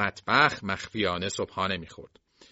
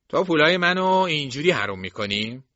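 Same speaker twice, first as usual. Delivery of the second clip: louder, higher accusing shout; angry scolding; 6 semitones higher, 6 dB louder than usual. Acted. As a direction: snap at her over wasted money. Jason berates niece about money.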